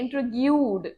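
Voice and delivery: intrigued with the final d heard; clear ed ending. Shown as a demonstration. Teacher repeats the word for students, with a clear d. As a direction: sound the d in intrigued. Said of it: "ईडी है तो सुनना चाहिए".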